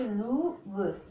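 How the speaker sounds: very slow "लूब", oo held long; sounded out. Shown as a demonstration. Teacher applies the rule for learners, sounded out "लूब". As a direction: draw out "लू" before a separate b. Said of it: "क्या पढ़ा है".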